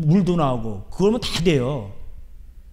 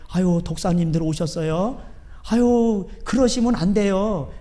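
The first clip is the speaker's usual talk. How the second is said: slow, syrupy fake courtesy; mock sweet politeness; slower than usual. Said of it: "이랬을까요?". (세례요한이 독사들에게 비꼬듯 공손하게)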